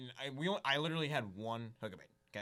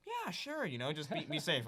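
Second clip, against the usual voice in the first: put-on friendly old man; 4 semitones higher than usual.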